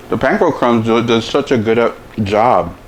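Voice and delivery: talking with mouth full; chewing while talking. Real, not acted. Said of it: "I'm talking to you with my mouth full with food".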